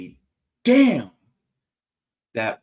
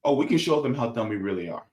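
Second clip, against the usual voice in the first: brisk, dry sarcasm; sarcastic; 3 semitones lower, 3 dB quieter, faster than usual. Real, not acted. Host jokes that voters can show how dumb they are, sarcastic. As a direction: say it quickly as a sarcastic boast. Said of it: "I'm being sarcastic".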